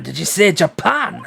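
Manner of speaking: level Scottish "Did you say Japan?"; Scottish accent. Acted. Governor double-checks where the visitor is from, Scottish accent. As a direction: ask it back in a steady Scottish accent. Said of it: "how well can you do Scottish?".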